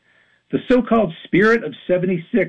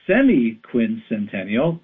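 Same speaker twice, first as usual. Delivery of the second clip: wry drawn-out name; 4 semitones lower, slower than usual. Real, not acted.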